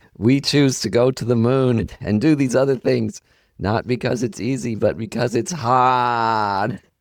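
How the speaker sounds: put-on Boston accent, word hard and drawn out. Quoting a famous John F. Kennedy line, in his Boston accent. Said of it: "In that Boston accent".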